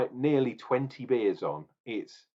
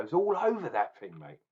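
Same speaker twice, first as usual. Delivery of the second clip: put-on London accent, pitched up. Beer reviewer pointing out the Tube logo to viewers, playful London accent. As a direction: lay on a bit of London accent. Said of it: "I'm talking in a London accent".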